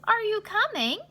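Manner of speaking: lightly voiced conductor; conductor asking. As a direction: invite the child aboard. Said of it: "he said".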